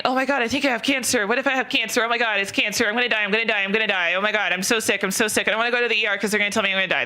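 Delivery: mock panic, fast and breathless near the end; panicky hypochondriac. Mocking what a hypochondriac says, fast mock panic. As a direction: play the anxious hypochondriac, a little hammed-up. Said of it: "I'm not sitting here going".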